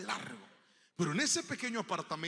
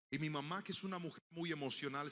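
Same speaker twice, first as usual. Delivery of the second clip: normal talking voice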